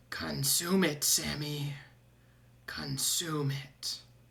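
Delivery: disembodied voice speaking close in the ear. Voicing a voice in a player's ear urging them: voice in your ear. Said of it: "you hear a voice in your ear, the same voice go".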